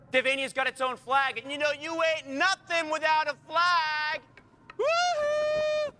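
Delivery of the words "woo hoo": much higher, sing-song gloating at the neighbour; gloating taunt. Acted. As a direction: crow over him like a kid showing off a toy. Taunting neighbour without flag.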